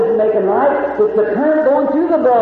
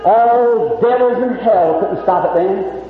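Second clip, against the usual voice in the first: slow preaching build; 3 semitones lower, slower than usual. Acted. Preaching climax.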